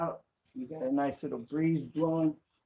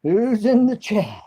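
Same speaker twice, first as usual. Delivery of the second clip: loud, higher call to the chat; calling out loudly; 6 semitones higher, 11 dB louder, slower than usual. Real, not acted. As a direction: raise the voice and call out, slowly. Repeats the question loudly to chat.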